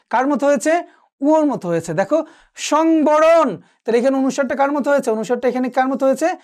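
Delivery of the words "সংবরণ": সংবরণ high and drawn out, ং as ng; velar nasal ng. Shown as a demonstration. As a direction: stretch সংবরণ, sounding ং like ঙ. (সংবরণ-এ ং টেনে ঙ-র মতো উচ্চারণ)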